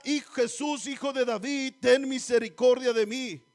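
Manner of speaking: preacher voicing a beggar's shout; imitated cry. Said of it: "Y el grito de él era".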